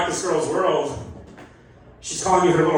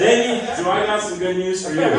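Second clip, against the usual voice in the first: excited; 3 semitones higher, 3 dB louder than usual. Retold or imitated. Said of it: "I got excited".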